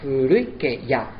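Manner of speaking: slow furui ke ya with vowels run together; with synalepha. Shown as a demonstration. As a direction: join the vowels slowly. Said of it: "Se haría una sinalefa".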